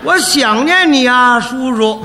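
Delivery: textbook recitation. Shown as a demonstration. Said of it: "第三课".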